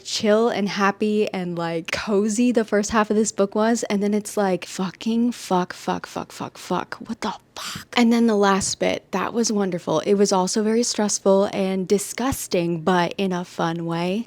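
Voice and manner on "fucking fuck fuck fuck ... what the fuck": swearing that fades into a whisper; shocked muttered cursing. Retold or imitated. Reader after the cozy half turns horrible, shocked whispering. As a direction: repeat the curse, dropping to a horrified whisper. Acts out shock at book's turn.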